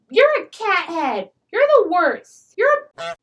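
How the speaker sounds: loud mocking taunt; mock angry insult. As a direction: snap the insults at her like a brat. Arlo insults her party-mate.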